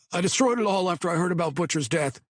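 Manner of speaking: high, anxious pleading voice; a scared informant talking fast; nervous young man. A narrator's reading. Patty nervous rushed.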